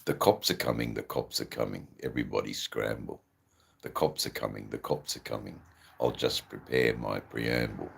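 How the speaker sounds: low, rhythmic poem recital; low-pitched spoken-word verse. Acted. Let's retry that again.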